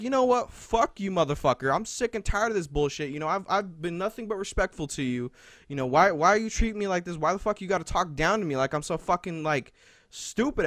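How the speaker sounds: fed-up rant, imitating his own blow-up; flipping out. Student called a freshman flips out, retold angry outburst. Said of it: "I flipped my shit".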